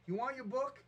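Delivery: retold yelling. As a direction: push a flaky friend to name a time. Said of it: "here I am yelling at him".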